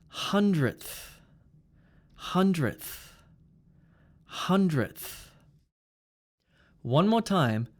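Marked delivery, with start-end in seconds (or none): 0.1-5.3 "Hundredth" with a stop released into th; DTH ending. Shown as a demonstration. Teacher models for repeating, "Hundredth" with d plus th. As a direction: close on d, then breathe th in "Hundredth". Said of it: "we have D T H".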